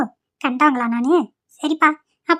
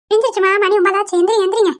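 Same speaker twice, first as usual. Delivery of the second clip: servant woman; 5 semitones higher than usual. Acted. Servant waking the lady.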